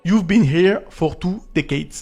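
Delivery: slow, careful attempt at an English accent; best English accent. Shown as a demonstration. Vlogger reads out the decoded phrase for viewers, English accent. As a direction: put on your best English accent, drawn out. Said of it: "je vais sortir mon plus bel accent anglais".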